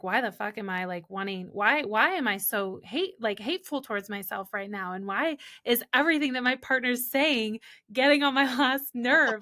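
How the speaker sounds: mock-irritated rant about partner; exasperated self-rant. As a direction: vent like everything annoys you. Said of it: "I'm like".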